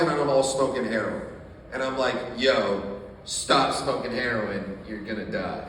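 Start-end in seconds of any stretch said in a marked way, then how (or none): 2.4-5.6 low, slow, mock-sober warning; voice of reason. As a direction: play the sensible friend, pitched down. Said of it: "the voice of reason over here".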